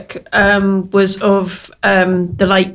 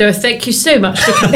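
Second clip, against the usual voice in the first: laughing posh voice. Retold or imitated. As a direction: put on a posh voice, giggling. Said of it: "I put the posh voice on and said".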